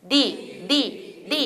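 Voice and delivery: 리 three times, softly, each tapped; quick tongue tap on each 리; Korean tap. Shown as a demonstration. Teacher drilling trainees on Korean, softly tapped 리. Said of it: "리만 세 번 해보세요".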